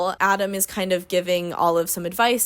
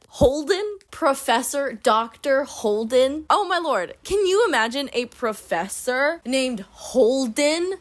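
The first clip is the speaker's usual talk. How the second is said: slow, higher disbelieving drawl; incredulous mockery; 4 semitones higher, slower than usual. Real, not acted. A reader mocking a professor named Holden, drawn out. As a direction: stretch out each word in disbelief.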